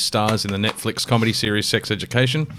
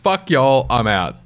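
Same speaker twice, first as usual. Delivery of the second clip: mock rage quit; 3 semitones higher, 4 dB louder, slower than usual. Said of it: "the rage quit like he did".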